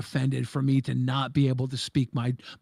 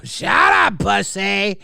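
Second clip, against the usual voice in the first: much higher and louder, stern command; stern shut up; 5 semitones higher, 7 dB louder, much slower than usual. Pretend. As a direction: bark it like a scolding. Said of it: "Nightmare needs a stern shut up".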